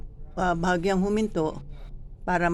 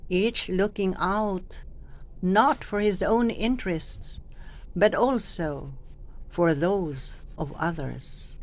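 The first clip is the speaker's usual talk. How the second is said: slow, with pauses between each looking out, not for his own interests and but also; phrased with pauses; slower than usual. Shown as a demonstration. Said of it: "para mabigyan ng expression".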